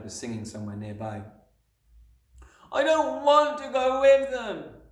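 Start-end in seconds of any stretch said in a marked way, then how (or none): 2.7-4.8 very high, loud, slow protest; little girl's stretched, high-pitched outburst; sudden shout. A narrator's reading. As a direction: wail it out like a desperate child. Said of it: "Matilda shouted suddenly".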